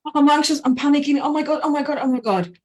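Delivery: dry mouth voicing a mock oh-my-God panic. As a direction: play the frantic inner alarm, half-joking. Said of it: "it's sending a signal".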